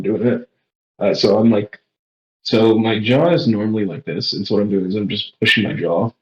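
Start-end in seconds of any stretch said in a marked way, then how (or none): 2.4-6.1 talking with jaw pushed down; sucked in cheeks. Real, not acted. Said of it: "And sucking in my cheeks".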